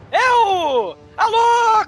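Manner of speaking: loud. Real, not acted. Hosts calling out intro.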